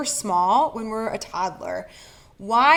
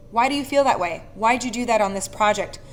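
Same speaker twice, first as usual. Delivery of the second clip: accusatory why question. Shown as a demonstration. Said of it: "when you ask things in that way".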